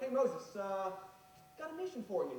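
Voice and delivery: God talking like a buddy; a lightly voiced casual God. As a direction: drop it like a laid-back pal. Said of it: "God doesn't talk like this".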